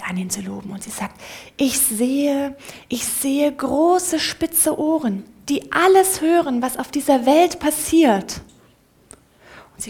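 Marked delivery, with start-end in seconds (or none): 1.6-8.4 higher and louder, swelling with awe; excited praise. Acted. The mouse eagerly praises God, growing louder and higher. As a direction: praise him, building louder.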